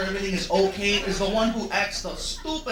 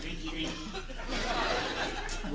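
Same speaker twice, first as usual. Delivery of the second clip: very slow, soft, tipsy drawl; slow drunk voice; 11 dB quieter, much slower than usual. Acted. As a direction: slur it out like a drunk. Mocking himself about drinking.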